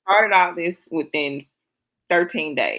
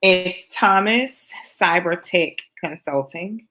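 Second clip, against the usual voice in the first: measured, deliberate naming of the channel; slow and careful so they can note it; slow, clear dictation; 4 semitones higher, 3 dB louder than usual. Shown as a demonstration. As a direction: spell the name out slowly for the link. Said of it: "so I can link it in the comments".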